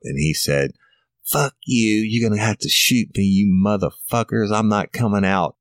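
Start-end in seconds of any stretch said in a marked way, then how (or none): 1.2-5.6 higher retold defiance, snarled at cops; defiant yelling. Suspect hiding in the closet cursing at officers, higher mock defiant yell. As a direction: throw the curses out defiantly, pitched up.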